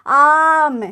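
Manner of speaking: आम said with the mouth opened wide and a long open आ; open-mouthed aam. Shown as a demonstration. Teacher showing students an open-mouthed आम. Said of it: "मुंह थोड़ा खोल कर पढ़ेंगे".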